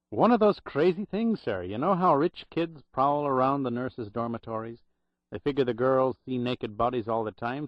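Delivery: lightly voiced Irish brogue remembering; a hint of old Irish brogue, grave. Old Irish clerk recalling the drowned nurses, light Irish brogue. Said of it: "in a loud Irish brogue".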